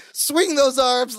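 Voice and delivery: yoga teacher. Retold or imitated. Larry coaching Balki's walk, lightly voiced yoga teacher. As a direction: lightly imitate a yoga teacher giving instructions. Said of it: "like he's leading a yoga class".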